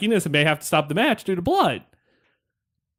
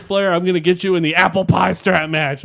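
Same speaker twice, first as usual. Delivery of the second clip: mock wrestler's threat, botching "apple pie"; Hulk Hogan; 3 semitones higher, 4 dB louder than usual. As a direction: lightly imitate a blustering wrestling promo. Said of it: "Hulk Hogan can't say Yappa Pie".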